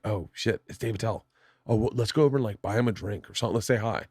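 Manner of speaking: hushed excitement. Retold or imitated. Spotting a famous comic at a bar.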